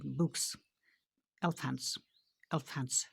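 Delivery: बुक्स, एलिफेंट्स each ending in voiceless S; word by word, clear S closing बुक्स and एलिफेंट्स; final S sound. Shown as a demonstration. Teacher drilling pupils on the end sound, clear final S in बुक्स, एलिफेंट्स. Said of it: "स sound निकलता है last पे".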